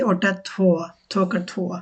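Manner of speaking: থো said with an aspirated থ, as in থোকার; pronunciation demo. Shown as a demonstration. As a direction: stress the breathy থ in থো. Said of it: "অনেকটা আমরা থ, থলের যে থ বলি".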